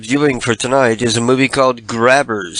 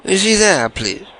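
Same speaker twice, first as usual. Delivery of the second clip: high, sugary put-on caller voice; sweet fake-friendly caller; prank caller voice; 8 semitones higher than usual.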